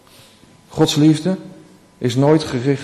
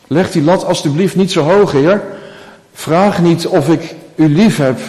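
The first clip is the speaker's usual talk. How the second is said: higher, louder urgent plea; pleading Peter; 3 semitones higher, 3 dB louder than usual. Acted. Petrus smeekt de Heer: higher, louder pleading. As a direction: beg earnestly not to be asked too much.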